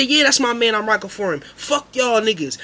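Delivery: loud, high defiant yell; defiant shout. Retold or imitated. Narrator backing his friend before the crowd, loud defiant yell. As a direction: back your man loudly.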